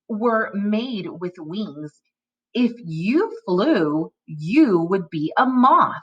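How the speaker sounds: slow, expressive read-aloud with pitch swings; very slow story-time reading with acted dialogue; reading to children. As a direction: read each phrase distinctly for young readers. Reads decodable story to children.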